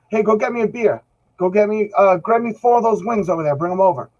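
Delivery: bossy and entitled, ordering the guys around; condescending attitude. Retold or imitated. To poker buddies, demanding beer and wings, condescending. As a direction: snap orders like a cocky young star. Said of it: "kinda condescending in a sense".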